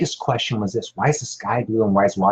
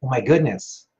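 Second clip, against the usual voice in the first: amazed gasp; 5 semitones higher, 3 dB louder, slower than usual. Retold or imitated. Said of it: "they were like".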